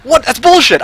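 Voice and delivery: loud, high burst of disbelief; outraged protest. Real, not acted. Gamer protesting a death in the game, outraged. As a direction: cry foul, high and loud.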